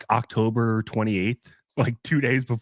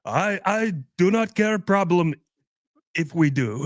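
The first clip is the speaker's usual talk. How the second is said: much higher, broken English in a mock Indian accent; 8 semitones higher than usual. Man answers the dad's challenge: much higher, mock Indian accent. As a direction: squeak out a defiant answer in a put-on Indian accent. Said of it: "The guy was like".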